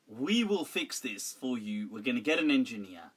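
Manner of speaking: low, settled promise to sort it out; straightforward reassurance. Shown as a demonstration. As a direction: demonstrate a no-fuss reassuring reply. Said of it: "Why not say it like that?".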